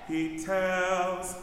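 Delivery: drawn-out speaking of the lyric; slow spaced-out phrasing. Shown as a demonstration. Choir director showing the rest after tells, slow. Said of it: "That gives us a place to put the S of tells then".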